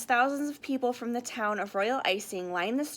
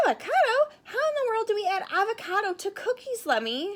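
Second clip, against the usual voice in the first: whispered; 10 semitones higher, 3 dB louder than usual. Acted. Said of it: "Sugar Belle whispered".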